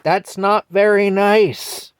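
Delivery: put-on high, slow, earnest child telling off a grown-up; scolding little kid. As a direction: wag your finger like a three-year-old. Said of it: "And I say".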